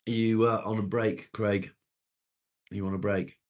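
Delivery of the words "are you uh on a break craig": calling out. Real, not acted. Calling to a viewer.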